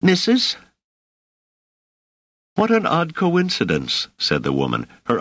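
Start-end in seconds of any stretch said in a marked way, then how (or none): 0.0-0.6 high-pitched, experimental question; tentative. A narrator's reading. Boy tries a title on the woman, tentatively. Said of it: "He then added experimentally". 2.5-4.1 much higher, sparkling woman's voice; delighted hostess. A narrator's reading. Hostess reacts to the boy's name, delighted.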